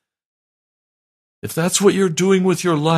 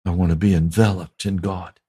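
hushed; 7 semitones lower than usual. Shown as a demonstration. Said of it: "repeated lower, quieter".

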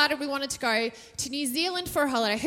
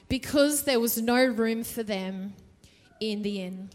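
scripture reading. Acted. Reads the Luke passage.

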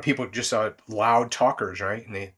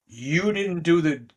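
harsh accusing; 2 semitones higher than usual. Retold or imitated. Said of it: "Two very different ways of communicating".

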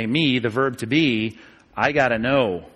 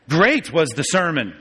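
slow delivery, Great stretched out first; emphasis on Great; slower than usual. Shown as a demonstration. Teacher showing Greek word order, stress on "Great". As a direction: lean on "Great" at the front. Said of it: "Word order in Greek gives us emphasis".

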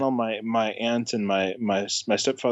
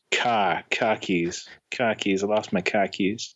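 tentative Boston accent, dropped R; attempted Boston accent; 3 semitones lower, slower than usual. Shown as a demonstration. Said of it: "having a hard time with the Boston accent".

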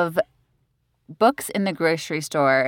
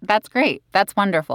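dismissive; 3 semitones higher than usual. Real, not acted. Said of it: "I sound so dismissive".

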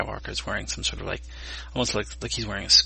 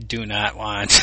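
loud fifties robot voice; 7 dB louder, slower than usual. Pretend. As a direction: say it like an old sci-fi robot. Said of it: "fifties robot voice".

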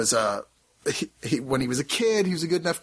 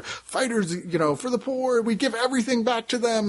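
noble bandits' boast; 10 semitones higher than usual. Retold or imitated. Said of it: "They're like".

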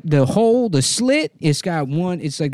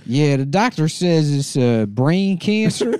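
put-on Taiwanese accent. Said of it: "where did you pick this accent up".

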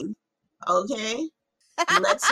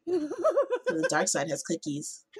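high, slow, through laughter; laughing; 9 semitones higher, 5 dB quieter, slower than usual. Real, not acted. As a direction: giggle through the line. Laughing Star Wars joke.

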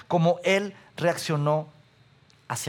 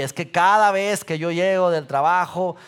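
ordinary delivery

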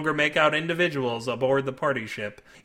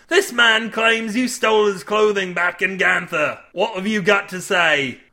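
loud, raised interrogation; commanding captain; 4 semitones higher, 5 dB louder than usual. A narrator's reading. Captain Syrup to the accused crewman, commanding. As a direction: demand an account from the crew.

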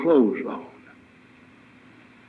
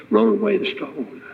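"Roll away the stone" called out high, lifting on Roll; preacher raising his voice high on the command; proclaimed command; 7 semitones higher than usual. Acted. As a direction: ring it out like a command to the tomb.

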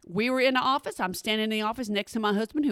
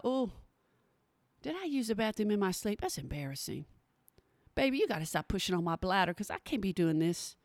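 softer, half-asleep musing to herself; hushed sleepy inner thought; 4 semitones lower, 8 dB quieter than usual. Retold or imitated. Groggy mom-to-be talking to herself at night, hushed. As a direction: murmur it like a groggy thought in the bathroom.

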